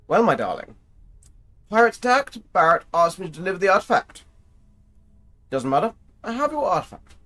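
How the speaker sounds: high, hammed-up posh British accent; playful posh British lady voice. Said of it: "put on my posh British voice".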